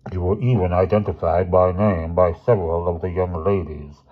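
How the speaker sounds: lightly voiced grave headmaster; formal, measured disapproval; stern headmaster. Headmaster laying out evidence to two boys, lightly stern.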